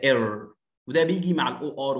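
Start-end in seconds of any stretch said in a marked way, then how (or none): 0.0-0.5 "إير" as a long English er; er sound. Shown as a demonstration. Teacher modelling the symbol's sound, long er. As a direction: say "إير" as one drawn, R-coloured vowel. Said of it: "منطقها كده".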